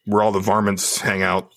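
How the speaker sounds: a light put-on Texas twang; Texas drawl. Podcaster slipping into a playful Texas twang. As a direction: lean lightly into a cowboy Texas accent. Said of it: "I don't know why I'm speaking this way".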